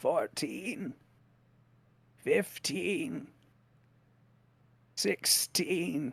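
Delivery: very faint, cracking, muffled voice. Narrating a scene, a figure in the shadows counts in a cracked voice. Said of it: "you hear this like cracked voice counting".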